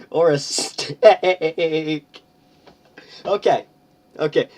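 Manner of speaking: high, loud, slow disbelief; incredulous. Real, not acted. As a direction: stretch it out in disbelief. Mocking the spelling.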